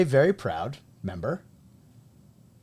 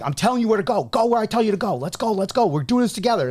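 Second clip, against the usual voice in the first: put-on high, loud coach yell at the kids; replaying a shout at players, loud and high-pitched; retold yelling; 10 semitones higher, 6 dB louder, faster than usual. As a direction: bark orders across the field. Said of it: "why are you yelling at us".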